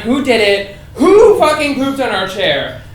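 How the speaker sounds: drawn-out mock outrage; lightly acted indignant question. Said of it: "we texted everyone".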